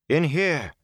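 high call to another room. A narrator's reading. Moraine summons men from the outer room, calling out. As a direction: call sharply for those outside. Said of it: "Moraine called".

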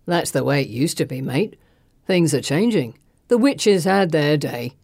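low-pitched villain voice; menacing thug. A narrator's reading. Thug lecturing his captive on change, menacing.

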